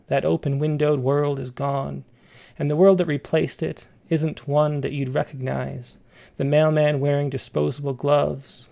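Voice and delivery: measured, unhurried poetry reading; poem reading. Acted. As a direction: read it like a poem on air. Host reads a poem aloud.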